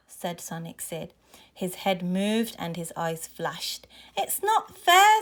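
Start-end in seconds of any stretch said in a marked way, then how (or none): 4.2-5.2 high, loud, drawn-out complaint; indignant protest. A narrator's reading. Mo to the bullies who took the robot, indignant protest. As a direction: protest loudly in a high child's whine.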